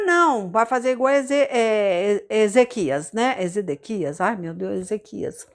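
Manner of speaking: ordinary talk, nothing marked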